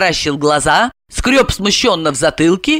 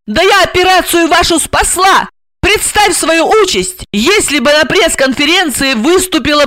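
high, indignant woman's tirade; angry cry; 6 semitones higher, 3 dB louder than usual. A narrator's reading. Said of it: "крикнула". (возмущённый крик высоким голосом)

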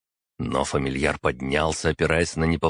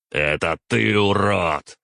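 louder angry retort; growled; 4 semitones higher, 4 dB louder, slower than usual. Acted. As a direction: snarl it back at him. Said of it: "прорычал я".

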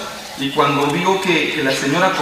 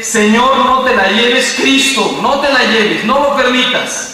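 retold desperate plea, raised pitch; grito desesperado imitado; 6 semitones higher than usual. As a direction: re-enact a begging cry to God, moderately. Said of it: "esos gritos de desesperación". (súplica desesperada, voz más aguda)

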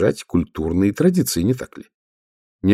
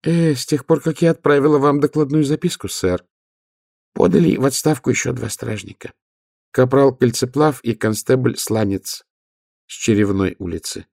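high nasal voice; 6 semitones higher than usual. Acted. Nobby speaks.

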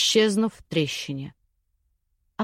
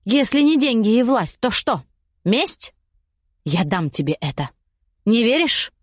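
desperate; 2 semitones higher than usual. Acted. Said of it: "прорезалось отчаяние".

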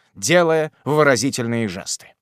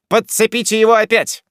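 unruffled mockery; 8 semitones higher, 6 dB louder than usual. A narrator's reading. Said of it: "с невозмутимым спокойствием".

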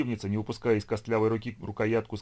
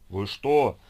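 joyful; 6 dB louder than usual. A narrator's reading. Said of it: "радостно отозвался тот".

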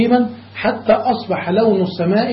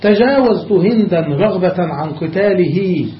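poem recitation; slower than usual. Shown as a demonstration. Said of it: "ومنه قول الشاعر".

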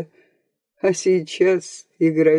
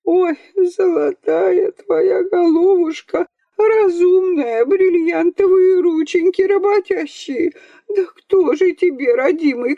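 keening lament; 11 semitones higher than usual. A narrator's reading. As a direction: lament him like a village mourner. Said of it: "запричитала другое".

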